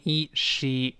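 a held "ee", then she as "shee"; long e. Shown as a demonstration. Teacher assembles the word for learners, she with long "ee". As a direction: hold e long and join it into she. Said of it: "再发长音e".

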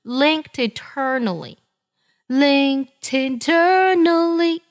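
"linkedeternally" as one run; linked linked eternally. Shown as a demonstration. Teacher demonstrates the joined words to students. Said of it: "和那个eternally要连读".

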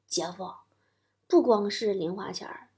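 soft, slow, confidential; acted-out kid sharing a secret, hushed and measured. Boy to his brother-in-law about his birth, hushed. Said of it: "压低声音说".

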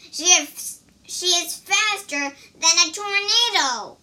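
high, loud exclamation; alarmed cry. A narrator's reading. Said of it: "cried the pig".

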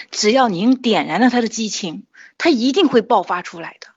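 retold heartfelt pitch, mildly impassioned; joyful passion. Mother urging the teacher to believe in her child, joyfully impassioned. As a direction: recreate an eager parent's praise. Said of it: "那么喜悦，那么激情地说起自己的孩子".

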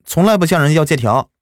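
put-on high, earnest little boy's voice, fast in spots; a ten-year-old begging for his dying father's money; boy begging a debtor to repay his family; pleading child. A narrator's reading. Child Duanduan answers.

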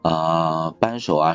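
ordinary delivery

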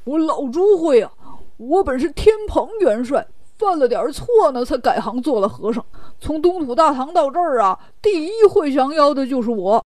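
lively, lightly voiced braggart; boastful Pigsy. Pigsy brags to the king about slaying demons, boastful. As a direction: puff yourself up and brag. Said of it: "八戒赶忙一挺大肚子就吹上了".

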